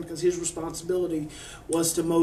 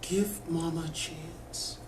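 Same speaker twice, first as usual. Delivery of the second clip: slow, much softer plea; 6 dB quieter, slower than usual. Shown as a demonstration. Mother pleading with her daughter, soft and slow. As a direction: ease it out gently. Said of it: "So whisper".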